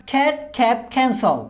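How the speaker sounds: খ্যাট, খ্যাপ, খ্যানসল with a breathy খ; aspirated C drill. Shown as a demonstration. Teacher drills learners on aspirated খ words. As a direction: puff of air on each খ. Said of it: "practice করুন".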